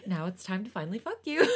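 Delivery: overly polite hotline voice, laughing through it; customer service voice. Pretend. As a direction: read it like a cheerful support agent. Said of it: "like, the customer service voice".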